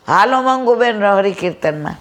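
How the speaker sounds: now Ranjanbehn calls out for her; calling out. Retold or imitated. Ranjanbehn calling Mangubehn to the hymns, light mock call. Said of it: "હવે કોણ બૂમ પાડે?".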